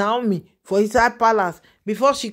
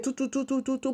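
much softer, murmured tu tu tu as if falling silent; hushed tu tu sounds; 2 semitones higher, 10 dB quieter, faster than usual. Retold or imitated. Gossiping to viewers, she softly mimics going silent. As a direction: let the tu sounds drop to a near hush.

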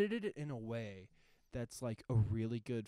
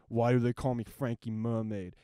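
Frankie Mermaid; 10 dB louder than usual. Retold or imitated. Repeats the gangster quote.

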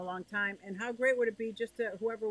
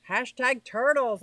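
announcing hashtag; 8 dB louder than usual. Real, not acted. Proposing a hashtag to chat.

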